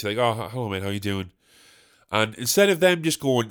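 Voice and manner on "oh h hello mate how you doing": lower, toned-down stammered greeting; dutifully polite. Acted. Man greeting an acquaintance, understated dutiful politeness. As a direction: go through the motions of a polite hello. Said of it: "out of politeness".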